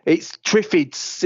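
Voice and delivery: high, slow Welsh-tinged "It's Triffids"; mock Welsh accent, slow and high; Welsh-sounding Triffids. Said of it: "it just sounds Welsh, Triffids".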